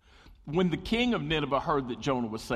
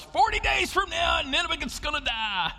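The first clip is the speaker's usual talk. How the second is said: prophet shouting; 13 semitones higher than usual. Acted. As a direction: bellow the warning at the whole city. Jonah shouting to the crowds.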